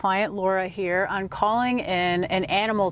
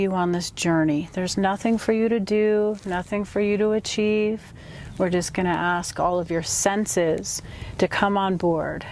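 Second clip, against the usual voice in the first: guided meditation. Acted. Guide leading a client on an inward animal totem journey, guided meditation. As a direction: ease the listener inward, phrase by phrase.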